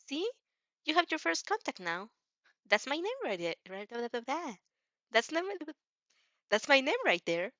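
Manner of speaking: put-on bright, helpful young hero showing off; Izuku voice. Izuku explaining the phone contact.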